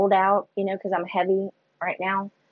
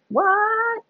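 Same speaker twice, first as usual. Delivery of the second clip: stunned what. Retold or imitated. Stunned by the hydro bed offer.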